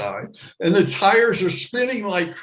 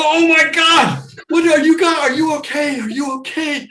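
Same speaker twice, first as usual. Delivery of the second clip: high, loud shocked questions; scared he just hit someone; alarmed concern; 12 semitones higher, 8 dB louder than usual. Retold or imitated. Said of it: "And I go".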